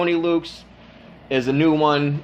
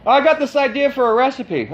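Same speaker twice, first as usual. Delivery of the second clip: mock excited caller; 10 semitones higher than usual. Mocking a caller's idea.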